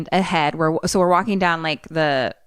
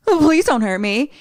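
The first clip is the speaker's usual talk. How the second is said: whimpering plea; 8 semitones higher, 4 dB louder than usual. Acted. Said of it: "Jeremiah now is like".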